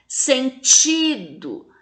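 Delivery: "Sentido" slowly, TI drawn out; very long TI in "Sentido"; tonic syllable stressed. Shown as a demonstration. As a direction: lean on TI in "Sentido". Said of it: "fala com mais intensidade".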